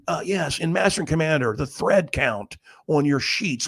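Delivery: lightly put-on fussy interviewer; mock reporter. Press asking about Master and Commander, mock reporter. Mimics reporter's trivial film question.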